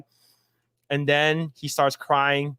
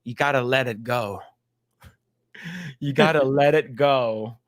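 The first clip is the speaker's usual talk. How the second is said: low, soothing comforter; gently coax, pitched down; mock reassurance; 5 semitones lower than usual. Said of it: "she's like".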